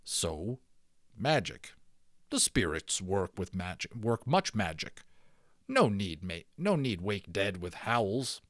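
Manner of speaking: low, slow and unimpressed; a hint of stern warrior scorn; calm disapproval. Indian chides the boy for shouting, calm and stern. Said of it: "disapproving of this display".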